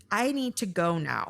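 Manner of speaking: even, controlled, unhurried statement; calm, matter-of-fact. Retold or imitated. Fuming ex excusing himself from the fight, calm. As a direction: say it evenly after a long pause. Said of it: "says it very calmly, matter-of-factly".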